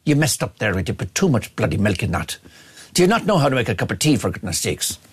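hammed-up irritated Irishman with an Irish accent; Roy Keane, furious Irish. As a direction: grumble indignantly in a put-on Irish accent. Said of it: "I'm allowed to do the Irish accent".

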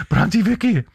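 high-pitched imitation of a pleading lad; pleading nephew. Nephew persuading his aunt to come in, imitated high pleading.

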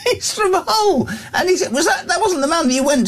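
high-pitched laughter breaking through the words; can barely get the words out for laughing; words squeezed out through a fit of laughter; laughing hard. Real, not acted. Host bursts out laughing.

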